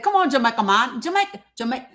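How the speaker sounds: badly faked Jamaican accent; attempted Jamaican accent. Streamer imitating a guest's failed try, half-hearted Jamaican accent. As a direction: have a go at a Jamaican lilt and fumble it. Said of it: "I can't even do it".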